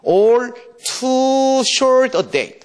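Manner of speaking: drawn out, recited like verse; slow poem recital. Shown as a demonstration. Teacher reciting Shakespeare to students, slow and drawn out. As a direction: savour each word of the line.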